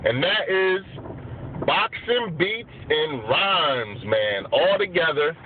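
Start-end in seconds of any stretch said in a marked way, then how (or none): 1.7-4.0 slow and careful. Real, not acted. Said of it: "Make sure I said it right".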